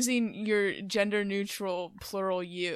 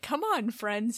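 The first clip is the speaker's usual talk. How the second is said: lightly condescending coaxing; mildly patronizing; 3 semitones higher, slower than usual. Acted. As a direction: talk down a little, like an authority figure. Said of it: "it sounds a bit condescending".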